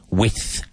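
"with" as the sound of width, D dropped; careful model of "with" for the spelling width; spoken as "with". Shown as a demonstration. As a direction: say "with" ending straight on a TH. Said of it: "but pronounced with".

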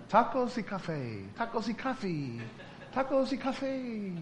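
slow, rising, laughing repetition of a learned order; rehearsing a memorized phrase. Retold or imitated. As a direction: drill it like a nervous foreigner. American rehearsing his order. (repitiendo la frase memorizada entre risas)

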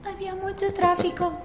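high, soft sneering imitation; mocking whiny excuse. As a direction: mimic the lame excuse. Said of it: "¿Y saben qué dijo?".

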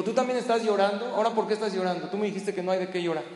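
astonished that his comrade is crying; surprised soldier. Retold or imitated. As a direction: catch him out in disbelief. Soldier surprised friend cries.

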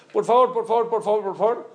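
begging over and over, pitch up; pleading. Retold or imitated. Buyer begging the seller for a discount, pleading.

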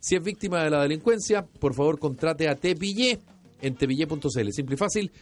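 serious announcer spoof; mock ad read. Host spoofs a security company ad for the joke, deadpan announcer. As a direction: sell the fake security firm deadpan.

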